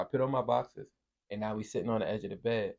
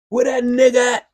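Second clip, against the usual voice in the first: higher, louder hood mom bark; 14 semitones higher, 15 dB louder than usual. Retold or imitated. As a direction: yell it like an angry Harlem mom. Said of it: "this is how her mom was barking".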